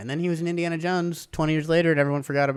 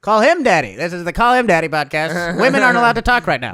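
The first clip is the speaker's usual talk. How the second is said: louder, brash podcast opener; hammed-up forties podcast host; mock host intro; 4 dB louder than usual. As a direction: announce the show like a macho host.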